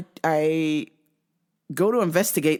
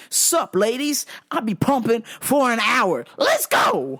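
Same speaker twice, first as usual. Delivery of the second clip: cocky boast; 4 semitones higher than usual. Retold or imitated. Retold boast while pumping.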